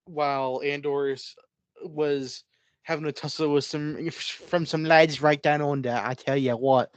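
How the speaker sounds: a lightly done, slow fake Australian; bad Australian accent. Explaining the plot to his co-host in a bad Australian accent. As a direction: try for Aussie and miss. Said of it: "that was not Australian".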